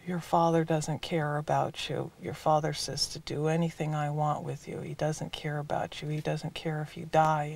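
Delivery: lightly voiced evil voice, held down low; deep, evil, mean voice. Father threatening a frightened boy, in a low evil, mean voice. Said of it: "puts on this really deep, evil, mean voice".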